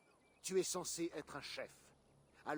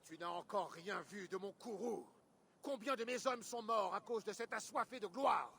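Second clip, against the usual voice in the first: wrathful, rising to higher pitch; furious; 4 semitones higher than usual. Acted. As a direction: vent wrath over the men lost. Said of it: "Guthrum était furieux". (colère montante)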